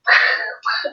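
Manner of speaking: short voiceless huffs; breathy scoffing laugh. Retold or imitated. Daughter reacting inwardly to offer of the guitar, scoffing huff. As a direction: puff out a mock incredulous laugh.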